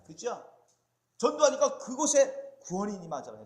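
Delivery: loud, high bursts of sermon fervour; forceful preaching. Real, not acted. Preacher telling how Peter went out to evangelize, forceful preaching. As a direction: preach it out with urgency.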